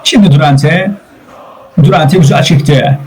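football commentator's running call; steady, projected sports commentary; live play-by-play. Real, not acted. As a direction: call the match as it unfolds.

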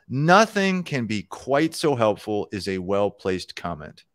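slow, deliberate read-aloud; measured quotation from a programming book. Acted. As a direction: read the passage out slowly and deliberately. Reads book passage aloud.

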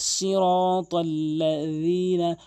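slow সিরাতাল্লাযিনা with tongue-tip th for য; সিরাতাল্লাযিনা, য as voiced th; correct dhal. Shown as a demonstration. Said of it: "দাঁতের আগা থেকে উচ্চারণ হবে".

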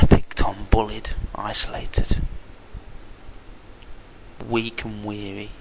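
slow, weary lament; self-pitying. Real, not acted. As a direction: drag it out, sorry for yourself. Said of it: "I feel very vulnerable".

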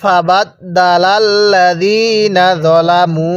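slow, drawn-out Quranic recitation. Shown as a demonstration. Teacher recites slowly for students to copy. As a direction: recite each syllable slowly for the learners. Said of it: "তাহলে".

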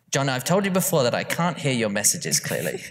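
mum's voice breaking into laughter; laughing through a mum's scolding; warm mom laugh. Retold or imitated. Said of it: "read the full thing in my mum's, uh, voice".

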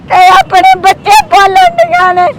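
real tears welling up; crying. Real, not acted. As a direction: voice breaking into high sobbing. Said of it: "ਰੋਵੋ ਨਾ ਤੁਸੀਂ". (ਰੋਂਦੀ ਹੋਈ ਉੱਚੀ ਆਵਾਜ਼)

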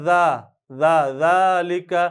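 জা with Arabic dhaal, drawn out slowly; জালিকা sounded the Arabic way, as the wrong model; Arabic-style zaal. Shown as a demonstration. Teacher showing the Arabic sound to avoid, slow Arabic dhaal. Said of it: "আরবির মতো উচ্চারণ করবো না".

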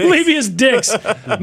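slow, laughing Levious Dicks, L on Levious; mock spoonerism. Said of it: "Le-, Levious".

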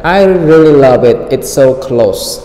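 tone settles down on close; falling answer tone. Shown as a demonstration. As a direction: answer it and let close fall at the end. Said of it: "The tone goes down".

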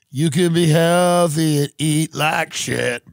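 hammed-up ad shout. Shown as a demonstration. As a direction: punch it out loud and slow. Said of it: "repeated louder take".

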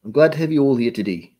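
a hint of an old lady. Host greeting viewers, drifting into an old lady voice. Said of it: "I sound like an old lady".

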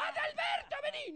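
high squeak calling out; squeaky Pito voice. Retold or imitated. Adalberto calling out in his squeaky voice, very high. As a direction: call him in a tiny piping voice. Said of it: "la voz de Pito".

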